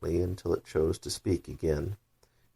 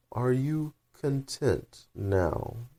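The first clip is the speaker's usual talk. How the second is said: very slow, drawn-out creature voice; caterpillar voice; 7 semitones higher, much slower than usual. Acted. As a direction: drawl it like a lazy, stern caterpillar. Caterpillar asking.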